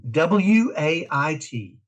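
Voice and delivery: slow letter-by-letter spelling; W, A, I, T, one letter at a time; spelled out. Shown as a demonstration. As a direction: spell each letter out slowly. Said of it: "something we called wait".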